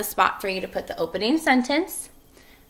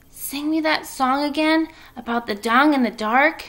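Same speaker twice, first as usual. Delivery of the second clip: begging; 5 semitones higher than usual. Acted. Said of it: "he begged".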